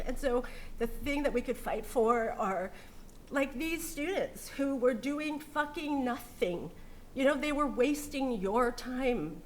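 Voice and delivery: catching breath between words; halting breaths while upset; catching breath midword. Real, not acted. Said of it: "when I have a hard time talking".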